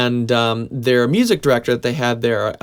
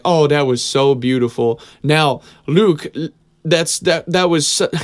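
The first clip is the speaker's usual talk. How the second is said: slow, higher Southern preacher drawl; thick Southern accent; 3 semitones higher, 4 dB louder, slower than usual. Retold or imitated. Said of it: "he had this thick Southern accent".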